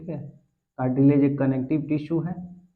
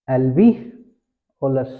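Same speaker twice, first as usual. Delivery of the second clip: slow drill; 2 semitones lower, 4 dB louder, much slower than usual. Shown as a demonstration. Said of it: "क्या होता है?".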